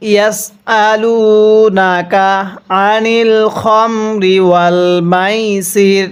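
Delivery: slow, drawn-out tajweed recitation; Quran recitation. Shown as a demonstration. Teacher recites the verse slowly for students to copy. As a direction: chant each word slowly and clearly for students. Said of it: "তাহলে কিভাবে পড়ব?".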